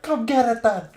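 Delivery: loud, high-pitched Scottish war shout; charging Scottish guy. Retold or imitated. Streamer imitating a Scottish player charging the enemy army, high shouted accent. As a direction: holler a challenge in a put-on Scottish accent. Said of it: "charges the enemy army".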